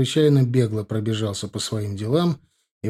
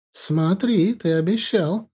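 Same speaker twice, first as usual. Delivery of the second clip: put-on higher, stern warning older woman; 8 semitones higher, slower than usual. A narrator's reading. Dilara warns Pasha to keep the secret, stern higher voice. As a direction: wag a finger at him with your voice. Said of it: "строго проговорила она".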